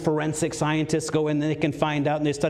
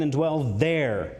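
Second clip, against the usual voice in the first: "there" drawn out slowly; long, falling "there" at the end; stress on THERE; slower than usual. Shown as a demonstration. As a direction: stretch and lean on "there". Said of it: "put my emphasis on it here".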